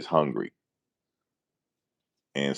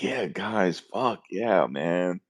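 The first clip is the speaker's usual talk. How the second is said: mock excitement; 4 semitones higher, much slower than usual. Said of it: "I'm supposed to be happy".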